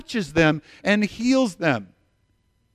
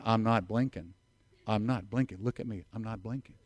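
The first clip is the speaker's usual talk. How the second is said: quiet stare-down; 7 semitones lower, 11 dB quieter than usual. Retold or imitated. Staring down the registrar.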